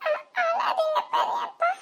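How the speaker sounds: put-on child comforting. Child comforting her crying uncle. (அழும் பெரியப்பாவை சிரிப்புடன் மென்மையாக தேற்றும் குழந்தை)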